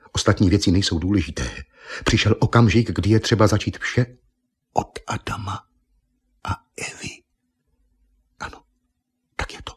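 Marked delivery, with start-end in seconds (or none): 4.7-9.7 hushed whisper. A narrator's reading. Solemn narration of a new beginning.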